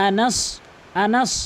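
Anas with a dark, rounded last vowel; rounded anas. Shown as a demonstration. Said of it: "Anas মুখটা একটু গোলাকার হবে".

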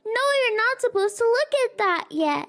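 put-on high, eager little boy. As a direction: play an excited young son. Son voiced hiding gift.

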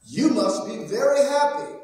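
high, bright exclamation from the villagers; exclaimed. A narrator's reading. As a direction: exclaim it with exaggerated cheer. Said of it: "the villagers exclaimed".

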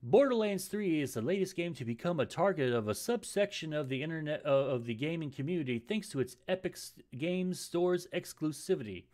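smooth news anchor read; newscaster voice. Shown as a demonstration. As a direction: deliver it like a TV newscaster. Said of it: "I'm trying to improve my newscaster voice".

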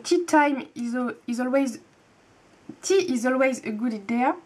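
French speaker's careful go at an English accent; stumbling stab at an English accent; attempted English accent. Real, not acted. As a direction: read the English with an earnest, imperfect English accent. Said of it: "Admirez mon magnifique accent anglais".

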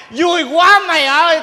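loud mock celebration; joyful shout. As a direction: cheer it out drunk and happy. Celebrating father's revival.

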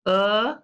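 the short oo of good, said alone as uh; double O sound. Shown as a demonstration. Teacher models the double O sound for kids. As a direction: isolate the vowel sound uh. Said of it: "listen to Missus Hanson first".

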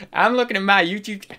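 quick, hammed-up go at a Southern accent; badly faked Southern twang; attempted Southern accent. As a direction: have a rough stab at sounding Southern. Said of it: "we'll just go southern".

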